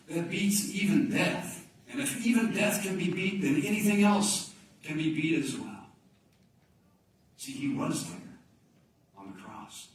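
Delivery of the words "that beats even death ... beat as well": triumphant proclamation. Real, not acted. Preacher declaring victory over death to the church, loud and triumphant. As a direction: ring it out like a victory.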